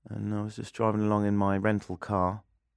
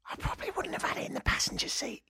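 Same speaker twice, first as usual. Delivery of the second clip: whispered aside; 9 dB quieter, faster than usual. Real, not acted. Joking aside about poaching.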